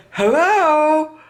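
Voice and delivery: high, sharp "Hello?" from a grumpy person at home; impatient answerer. Retold or imitated. Person answering a sales call at home, annoyed high hello. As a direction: snap up the phone like you've been bothered. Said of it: "they answer the phone".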